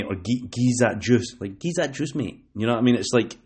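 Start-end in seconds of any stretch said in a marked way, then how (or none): 0.2-1.4 slow demo of Glasgow speech; Glasgow slang. Shown as a demonstration. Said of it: "in Glasgow or whatever, they'll say". 1.6-2.4 lightly imitated Glasgow speech, pitched up; Glasgow slang. Shown as a demonstration. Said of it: "in Glasgow or whatever, they'll say".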